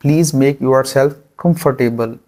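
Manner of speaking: each word stretched out; very slow. Shown as a demonstration. Teacher models the sentence slowly for students. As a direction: spell it out slowly for the class. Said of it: "इसको English में कहते हैं".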